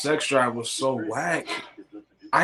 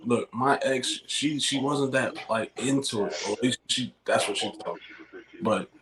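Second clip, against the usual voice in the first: talking tipsy after drinks. Real, not acted. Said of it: "I'm drunk".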